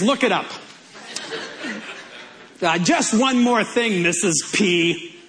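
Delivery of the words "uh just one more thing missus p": lightly voiced TV detective, amused; a hint of a detective's afterthought, laughing; Columbo. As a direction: toss out a detective's catchphrase with a chuckle. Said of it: "it just sounds like a Columbo line".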